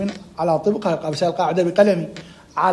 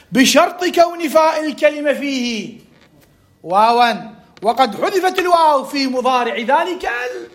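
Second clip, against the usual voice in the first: slow, raised-pitch rule reading; emphatic dictation; 5 semitones higher, 3 dB louder, slower than usual. Shown as a demonstration. Teacher reading out the rule's condition, slow emphatic dictation. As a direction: read slowly and high, stopping between parts.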